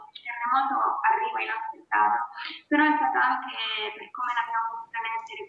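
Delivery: booming in an echoing room. Real, not acted. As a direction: speakerphone echo, hollow sound. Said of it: "si sente un po' di eco". (voce con eco, rimbombo)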